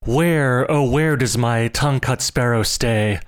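a searching call into the woods; old man calls among the bamboo. Acted. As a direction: call for the lost sparrow. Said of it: "stopping at every clump of bamboo to cry".

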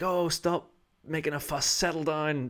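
put-on high, dismissive old-lady scold. Older lady scolding the hooked bird, high dismissive scold. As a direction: brush off the bird's fuss. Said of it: "she was like".

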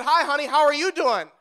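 lifted, upbeat husband hello; eager greeting. Retold or imitated. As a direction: act out greeting your wife brightly at the door. Acts greeting wife on coming home.

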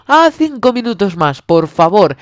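high, whiny plea. Retold or imitated. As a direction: beg like a kid who won't get up.

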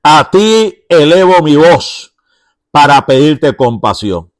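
the psalmist, hidden in the cave, pleading aloud to God. Retold or imitated. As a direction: beg God for help with urgency. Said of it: "elevar una oración, una súplica".

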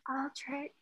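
soft, breathy and faint; breathed faintly. A narrator's reading. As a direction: barely breathe the name. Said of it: "she breathed faintly".

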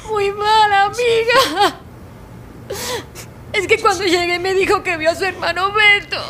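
tearful. Acted. Tells friend about the seizure.

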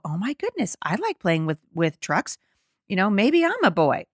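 a hint of a child's voice; imagined child. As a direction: lightly mimic a wondering child. Voices a child reacting to book.

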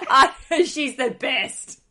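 high, loud gush through laughter; laughing delight. Real, not acted. Host gushing to guest about a favourite TV character, laughing delight. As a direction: laugh while gushing, drawing the words out.

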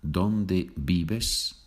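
vives said "bibes", both V sounds as B. Shown as a demonstration. Teacher reminds learners of the rule, vives with B sounds. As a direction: make each V in vives a B. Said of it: "the V is pronounced B".

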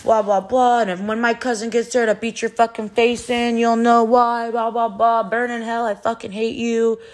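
half-hearted mock fury; mock angry rant. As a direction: ham up his raging threat. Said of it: "he just started fucking spazzing".

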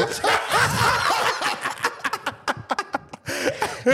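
high laughing burst. Real, not acted. Big laugh at shower cap.

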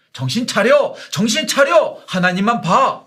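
high, loud cry to wake up; God's shouted command. Acted. Preacher voicing God to the people: loud urgent shout. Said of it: "이렇게 말씀하고 계시는 것이죠".

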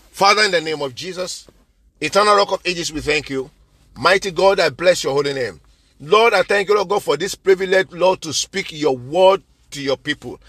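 steady, reverent prayer voice; closing prayer. Acted. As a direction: pray over the people, unhurried.

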